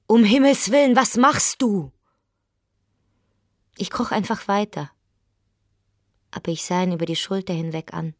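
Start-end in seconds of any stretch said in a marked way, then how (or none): 0.1-1.9 much higher and louder horrified cry. Acted. Husband shocked at finding his wife crawling on the floor.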